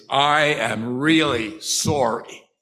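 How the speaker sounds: slow, deliberate paraphrased apology; earnest apology. Retold or imitated. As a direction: spell out the remorse slowly, word by word. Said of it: "What he is saying here effectively is".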